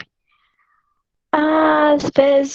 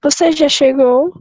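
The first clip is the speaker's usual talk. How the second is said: exclamation; 4 dB louder than usual. Shown as a demonstration. Reader demonstrates a question used as an exclamation. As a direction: question turned into an exclamation, a bit louder. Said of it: "Uma pergunta pode ser também uma exclamação".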